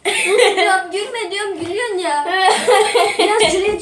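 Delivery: giggling pleas to stop laughing. Real, not acted. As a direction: laugh helplessly while telling off. Begging friend not to laugh. (gülerek yalvarma)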